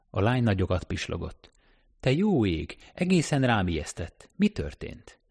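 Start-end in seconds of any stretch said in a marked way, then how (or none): 2.0-5.2 higher, breathless surprise rising to a peak; Kelly startled on the street, surprised; startled woman. Acted. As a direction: caught off guard by a man in the dark.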